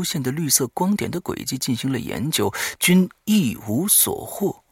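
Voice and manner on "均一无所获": ordinary talk, nothing marked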